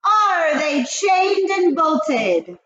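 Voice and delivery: slow, high and loud, dragged out; witch voice. A narrator's reading. Grand High Witch demands the doors be secured, slow high menace. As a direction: stretch each word like a menacing old witch.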